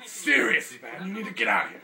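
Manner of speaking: loud, high-pitched urgent warning; hammed-up panic; urgent shout. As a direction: yell it like a frantic newscaster. Mock reporter urging evacuation.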